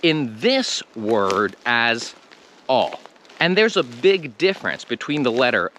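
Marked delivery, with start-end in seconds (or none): 2.7-2.9 O as a pure "aw"; O cut to an open "aw"; foreign short O. Shown as a demonstration. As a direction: say O like "aw", no glide. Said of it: "many languages would read the letter O".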